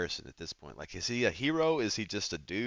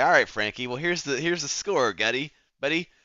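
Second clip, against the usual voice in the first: higher, louder 1930s gangster patter; old-time tough guy; 6 semitones higher, 5 dB louder than usual. Pretend. Player voicing the detective leaning on Frankie, hammy tough guy. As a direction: lean on him like a noir heavy. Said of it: "I don't know why I'm talking like this".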